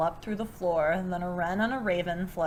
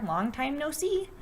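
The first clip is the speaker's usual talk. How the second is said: hare voice; 6 semitones higher than usual. Acted. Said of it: "says Hare".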